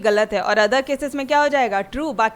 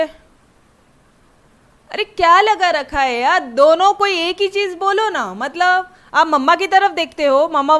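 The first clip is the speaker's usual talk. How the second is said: exasperated; 4 semitones higher, 3 dB louder, slower than usual. Retold or imitated. Frustrated child between parents.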